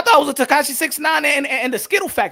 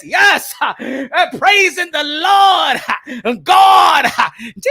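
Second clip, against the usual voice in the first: preacher. Shown as a demonstration. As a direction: preach it with call-and-response fire. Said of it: "say it like a preacher gonna say it".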